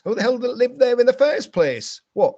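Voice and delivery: sarcastic outburst, pitch jumping up; indignant mockery. Real, not acted. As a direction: scoff at the idea, loud and high. Mocking claims of discovery.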